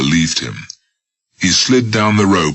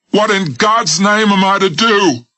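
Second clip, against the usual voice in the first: very high panicked cry; desperate. Acted. Old man at window begs Smith in desperate fear. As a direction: plead in terror. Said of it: "desperate voice from above".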